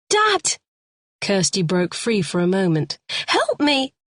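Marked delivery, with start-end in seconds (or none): 0.1-0.6 high cry to her dad; desperate call. A narrator's reading. Kirsty calls for father. 3.3-3.9 high, frightened plea; cry for help. A narrator's reading. Kirsty breaks free, cries.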